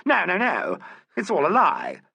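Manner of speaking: high, loud protest; frantic denial. A narrator's reading. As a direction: cry out that it's all lies. Accused woman denies loudly.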